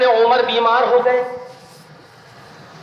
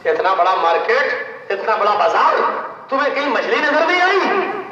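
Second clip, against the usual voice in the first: scolding. Acted. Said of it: "क्यों डांट रही हो उसको?".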